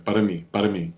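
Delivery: "Para mí, para mí" blended without a break; run together. Shown as a demonstration. Teacher showing the words running together. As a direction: slur "Para mí" into one flow. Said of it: "it's almost gonna run together".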